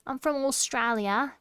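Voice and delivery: attempted cutesy Australian; Australian uwu voice. Shown as a demonstration. Streamer testing accent in uwu voice, cutesy mock Australian. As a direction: soften the Aussie accent into an uwu voice. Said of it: "that's hard to do in an Uwu".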